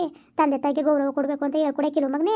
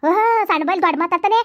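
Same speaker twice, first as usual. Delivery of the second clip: louder, higher furious telling-off; angry scolding; 4 semitones higher, 5 dB louder than usual. Acted. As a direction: scold the boy hard for his cheek. Mother scolds the cheeky child.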